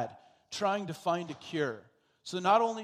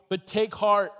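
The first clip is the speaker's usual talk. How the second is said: emphatic promise; 3 semitones higher, 8 dB louder than usual. Acted. Quoting Jesus' promise.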